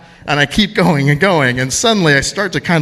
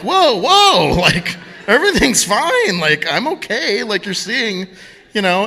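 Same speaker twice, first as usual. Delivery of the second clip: higher, hurried calming protest; reassuring the nurse; 7 semitones higher than usual. Retold or imitated. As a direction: wave off her panic in a raised voice.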